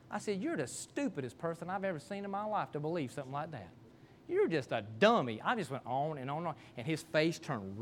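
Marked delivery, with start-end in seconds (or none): 0.4-5.4 softly delivered retold insults; unangry provocation. Preacher piling insults on his friend to make a point, unangry provocation. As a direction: push his buttons in an even, quiet voice. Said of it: "I wasn't mad. I was just making my point".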